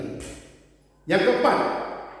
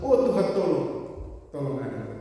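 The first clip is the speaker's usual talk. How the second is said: pleading mother; 4 semitones lower than usual. Retold or imitated. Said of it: "dia hanya selalu berseru".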